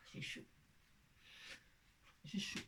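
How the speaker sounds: murmured almost to herself; soft aside. Real, not acted. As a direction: drop the voice to a near-breathy aside. Aside mid-tutorial, half-voiced. (dire à mi-voix pour soi)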